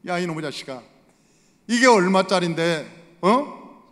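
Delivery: father scolding son over the broken vase, mock angry. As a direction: scold the son like a furious parent. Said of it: "얼마나 화가 났겠어요".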